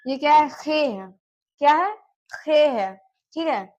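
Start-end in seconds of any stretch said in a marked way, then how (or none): 0.5-1.1 "खे" with a rasped throat KH; throaty KH demo. Shown as a demonstration. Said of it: "मैं जो बोल रही हूँ उस पे आप लोग ध्यान दीजिएगा". 2.3-2.9 "खे" with a rasped throat KH; throaty KH demo. Shown as a demonstration. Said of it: "मैं जो बोल रही हूँ उस पे आप लोग ध्यान दीजिएगा".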